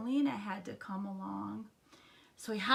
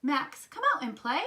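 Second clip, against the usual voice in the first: high, loud call to a friend; hollering; 5 semitones higher, 5 dB louder than usual. A narrator's reading. Froggy outside Max's house, hollered invitation. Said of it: "he hollered".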